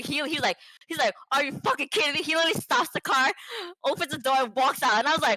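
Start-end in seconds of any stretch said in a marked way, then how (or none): 1.3-2.2 higher-pitched imitation of an outraged driver; incredulous mock-angry outburst; retold anger. Imitating angry driver who just got beeped, indignant. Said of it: "he was so angry".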